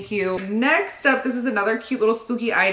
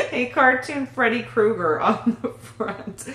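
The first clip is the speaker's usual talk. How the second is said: words through leftover laughter; still laughing. Real, not acted. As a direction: keep the giggle going as you explain.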